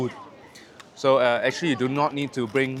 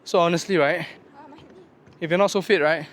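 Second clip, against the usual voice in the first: emphatic; 6 semitones higher, 3 dB louder than usual. Real, not acted. Tired hiker urging viewers.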